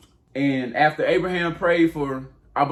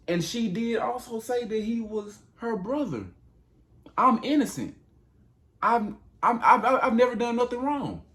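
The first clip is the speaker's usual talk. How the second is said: high, whiny protest of a panicked king; pleading innocence; 9 semitones higher than usual. Acted. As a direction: beg God to believe you, voice climbing high.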